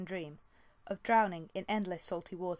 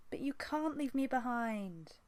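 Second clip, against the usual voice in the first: crying out; 6 semitones higher, slower than usual. Acted. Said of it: "Squirrelpaw cried".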